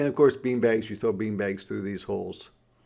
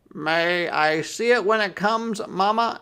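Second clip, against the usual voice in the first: pleading brother; 8 semitones higher, 4 dB louder than usual. A narrator's reading. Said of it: "asked Brother".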